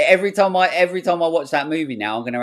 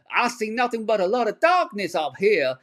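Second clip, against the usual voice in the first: quoting the villain; 8 semitones higher than usual. Retold or imitated. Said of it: "he goes".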